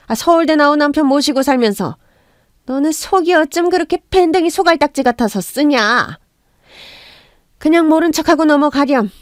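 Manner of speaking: mother-in-law sides with her son, lightly voiced. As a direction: lecture her like a petty elder.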